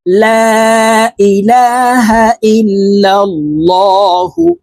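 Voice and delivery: slow chanted ইল্লাল্লাহু with a heavy, thick L; thick lam. Shown as a demonstration. Teacher showing how Allah's name is read in ইল্লাল্লাহু, thick lam. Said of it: "এই লামকে ল অর্থাৎ মোটা করে পড়ব".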